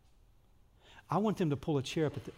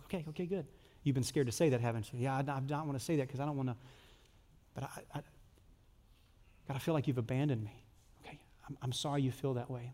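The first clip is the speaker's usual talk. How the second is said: gentle God voice; 5 dB quieter, faster than usual. Pretend.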